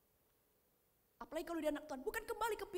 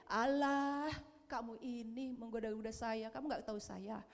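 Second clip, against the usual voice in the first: mock Jesus reply; 5 semitones lower than usual. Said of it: "Apa kata Yesus? Apa begini?".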